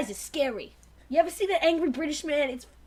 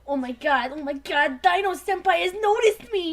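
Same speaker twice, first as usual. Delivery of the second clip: fangirl squeal. Pretend.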